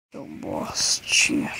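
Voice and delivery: slow whispered insult; taunting whisper. Real, not acted. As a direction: hiss the insult softly.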